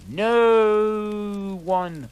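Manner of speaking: high, loud falsetto yelp; cartoonish loud protest; hammed-up shout. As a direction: yelp it as chains grab you. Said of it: "Lupin shouted".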